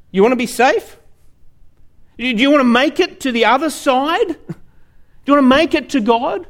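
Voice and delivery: a lightly voiced calm man checking on you; calm rescuer. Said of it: "And he says to you".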